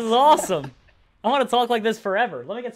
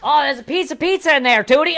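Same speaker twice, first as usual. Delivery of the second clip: higher, louder squeaky pizza line; helium voice; 7 semitones higher, 5 dB louder than usual. Shown as a demonstration. Second try at the helium pizza voice, squeaky. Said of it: "let me try one more time".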